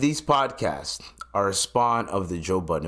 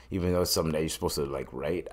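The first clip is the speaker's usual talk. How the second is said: whispered aside; 5 semitones lower, 7 dB quieter, much faster than usual. Real, not acted.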